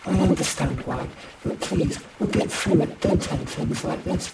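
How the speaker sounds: high, loud, earnest plea; pleading reassurance, voice lifted; coaxing partner Claude. Acted. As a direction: coax them with hopeful plans.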